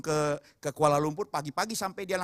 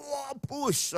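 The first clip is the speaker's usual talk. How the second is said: higher-pitched "whoosh" of a sudden burst; imitated gushing burst; 8 semitones higher, 5 dB quieter than usual. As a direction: mimic a sudden gush. Imitates sudden gush of blood.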